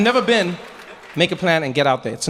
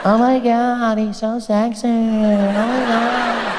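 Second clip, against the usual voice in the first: put-on much lower, slow seductive French accent; 5 semitones lower, much slower than usual. A romantic Frenchman seducing, low French accent. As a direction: purr like a romantic Frenchman, then gush. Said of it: "They've got that thing".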